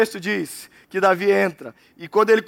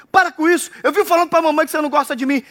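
whiny little brother; 5 semitones higher, faster than usual. Acted. Little brother whining at older brother.

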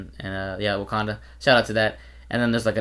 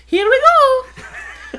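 very high, slow stretched call; drawn-out hype call; 7 dB louder, much slower than usual. Retold or imitated. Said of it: "Mike's like".

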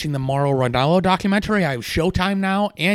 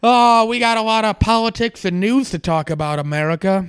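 hammed-up anchor voice, higher and louder; mock news anchor; 7 semitones higher, 4 dB louder than usual. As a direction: announce it like a TV host.

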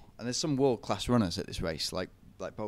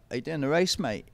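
higher, louder mock Aussie voice; Aussie accent; 6 semitones higher, 6 dB louder than usual. Aussie stranger asks about the race, imitated Australian accent. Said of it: "That's my Aussie accent".

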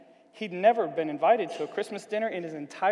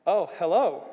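louder, surprised greeting; 8 dB louder than usual. A narrator's reading. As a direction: greet an unexpected visitor with surprise.

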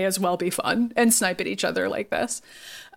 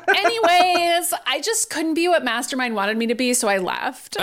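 airy Emma; 5 semitones higher than usual. Retold or imitated. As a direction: brush the question aside breezily. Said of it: "she's like".

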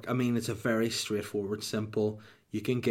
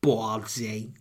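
mobster taunt; slower than usual. Acted. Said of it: "I'd be like".

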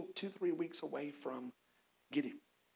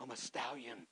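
mock dramatic freedom; 4 dB quieter, slower than usual. Wild stallion refusing marriage.

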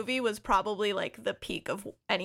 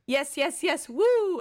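mock cheering; 6 semitones higher, 4 dB louder, slower than usual. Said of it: "she goes".

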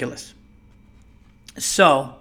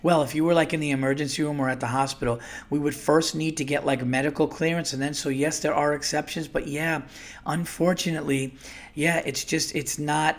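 lightly mocked patronizing agent voice; condescending; 4 dB quieter, faster than usual. Supervisor explaining exceptions to the caller, mildly mocking and condescending. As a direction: imitate her talking down to him. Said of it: "this bitch was talking like that".

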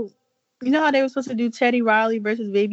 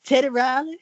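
playful higher put-on date voice; mock sweet plan for date night; 3 semitones higher than usual. Hyping her date night in a put-on voice. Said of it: "We gonna talk in this voice?".

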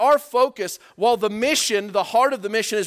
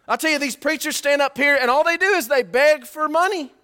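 laughing scorn; 8 semitones higher, 6 dB louder than usual. Real, not acted. Preacher mocks money-begging preachers.

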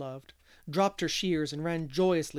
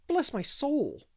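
slow, much higher exclamation with gusto; 10 semitones higher, slower than usual. Acted. Davy repeats Mr. Harrison's phrase, with great gusto. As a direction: relish the borrowed phrase. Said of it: "used it with great gusto".

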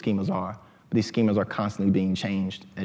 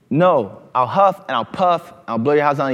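louder, higher mock wolf threat; hammed-up wolf; 5 semitones higher, 7 dB louder than usual. Storyteller playing wolf for the crowd, hammed-up menace. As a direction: puff up like the bad wolf. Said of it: "Wolf is like".

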